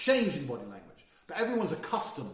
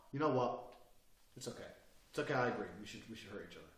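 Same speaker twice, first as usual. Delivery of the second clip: soft, lowered voice; suddenly nice; 6 semitones lower, 7 dB quieter, faster than usual. Shown as a demonstration. Man flipping from screaming to nice, quiet. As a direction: switch instantly to gentle agreement. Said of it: "to nice inside of two seconds".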